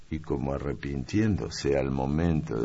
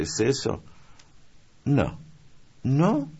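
put-on higher, playful girl's voice; young maid guessing; 7 semitones higher, 6 dB louder, slower than usual. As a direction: tease out the guess like a game. (criada juguetona, voz aguda)

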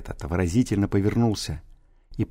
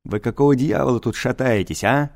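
growling; 3 semitones higher than usual. Acted. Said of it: "рычала".

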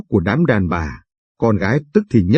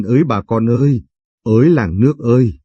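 a villager's mild call for help, only slightly raised; crying out to the village. Acted. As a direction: call out to the neighbours without real shouting. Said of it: "Chị gào lên". (tiếng gọi làng nước hơi to)

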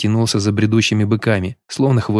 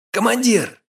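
higher, more urgent second call; repeated call; 12 semitones higher, slower than usual. A narrator's reading. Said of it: "крикнул кавалерист". (повторный, более высокий окрик)

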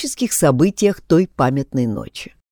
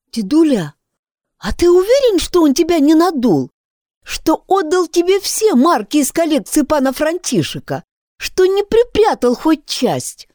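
put-on anxious girl voice; 12 semitones higher than usual. Girl anxiously questioning grandfather.

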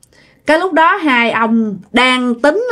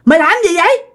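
high-pitched, alarmed telling-off; acted scolding; 7 semitones higher than usual. Second uncle scolding Út for eating ducks raw, high-pitched acted scolding. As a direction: scold him in disbelief, pitch climbing. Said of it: "ổng la như vậy".

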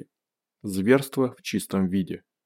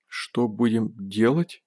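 trembling voice; slower than usual. Acted. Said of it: "дрожащим голосом произнёс Бенс".

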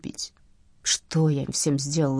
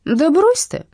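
contemptuous; 11 semitones higher, 7 dB louder, slower than usual. Acted. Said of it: "ответил бандит презрительно".

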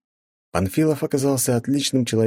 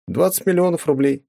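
with a smile; 10 semitones higher than usual. A narrator's reading. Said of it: "с улыбкой сказал я".

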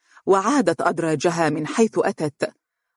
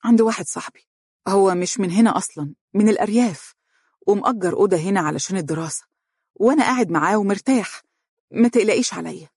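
light, higher smiling reassurance; 3 semitones higher, faster than usual. Acted. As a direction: reassure her with a smile. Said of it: "قال مبتسما".

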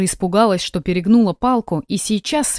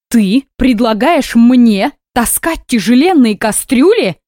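indignant; 3 semitones higher, 6 dB louder, slower than usual. Acted. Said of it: "не унималась свекровь".

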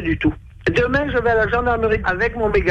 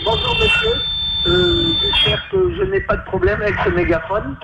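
talking through a megaphone, higher; over a megaphone; 8 semitones higher than usual. Real, not acted. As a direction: speak into the megaphone. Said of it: "Est-ce que vous pouvez me parler dedans".

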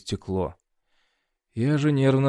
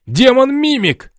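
high, slow, loud panicked shriek; guard shrieks about the demon in panic; 11 dB louder, slower than usual. A narrator's reading. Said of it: "заорал Рыжий".

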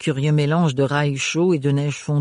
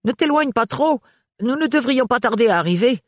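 lightly raised, higher character voice; a companion reminding her gently; 9 semitones higher than usual. Acted. Reading a character who warns the traveller.

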